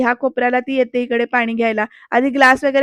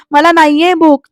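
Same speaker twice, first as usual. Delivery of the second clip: raised, louder mock protest; retold yell; 4 semitones higher, 7 dB louder than usual. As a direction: act out a yelled refusal. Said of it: "पृथ्वी ओरडतो तिच्यावर". (ओरडून नकार देणे)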